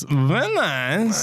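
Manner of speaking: swooping mock-Kazakh catchphrase; comic foreign impression; Borat. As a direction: slip into a Borat accent for the catchphrase. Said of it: "I did my Borat impression".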